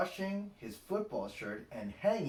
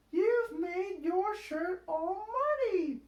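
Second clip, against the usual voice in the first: Peppa scolding; 5 dB louder than usual. A narrator's reading. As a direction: tell Daddy off as Peppa. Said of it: "cries Peppa".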